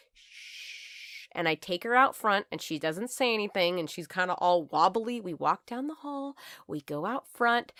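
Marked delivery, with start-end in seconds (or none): 0.1-1.3 soft unvoiced shush; whispered shush. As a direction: hush her gently with a breathy shh. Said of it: "and I go".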